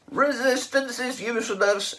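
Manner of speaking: high, loud bellowed slogan; Vogon guard shout. A narrator's reading. Vogon guard shouts at his prisoners, loud bellow. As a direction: drone the slogan like a brute.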